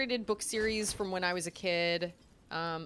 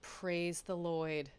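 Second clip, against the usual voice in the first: slow, lower, solemn praise; mock-reverent and drawn out; dim-witted reverence; 4 semitones lower, 5 dB quieter, much slower than usual. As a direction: draw it out devoutly, lightly acted. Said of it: "And he goes".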